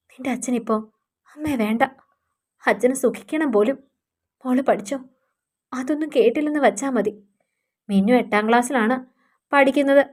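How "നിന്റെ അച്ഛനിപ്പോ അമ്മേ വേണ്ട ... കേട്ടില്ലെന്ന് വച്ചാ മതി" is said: much softer, weary and tearful; a mother soothing her daughter through her own hurt; quiet, tired sorrow; after crying. Acted. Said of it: "കിടന്ന് പൊട്ടിക്കരഞ്ഞു".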